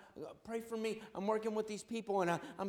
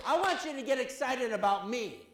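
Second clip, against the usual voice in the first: God's demand; 4 semitones higher, 4 dB louder than usual. Acted. Preacher voicing God's demand.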